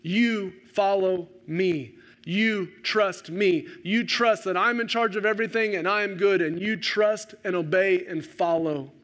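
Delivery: slow, steady, gentle command; calm reassurance. Retold or imitated. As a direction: reassure him slowly, word by word. Jesus gently answers Peter.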